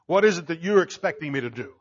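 a meek student asking to be shown; humble attitude. Acted. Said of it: "The right attitude is".

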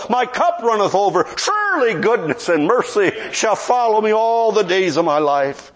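steady, measured scripture reading; psalm recitation. Acted. Preacher reciting Psalm 23 to his congregation, steady and reverent.

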